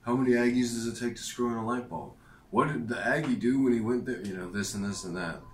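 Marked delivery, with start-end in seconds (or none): 0.0-4.2 higher, louder joke-teller's setup; a hint of a hammed-up joke teller; joke-telling voice. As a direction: pitch it like a cheesy joke. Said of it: "all these Aggie jokes".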